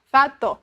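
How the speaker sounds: Fa, to read as two separate syllables; split syllables. Shown as a demonstration. Teacher showing a child's choppy reading, syllable by syllable. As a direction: sound out Fa and to apart like a beginner reader. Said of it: "Vamos supor aqui".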